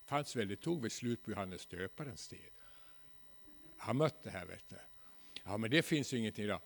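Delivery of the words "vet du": ordinary talk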